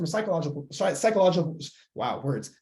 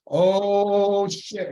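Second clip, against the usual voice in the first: a higher, louder panicked "oh shit"; alarmed brain voice; 4 semitones higher, 5 dB louder than usual. Retold or imitated. The brain panicking at chips in the house. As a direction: play the brain suddenly spotting danger.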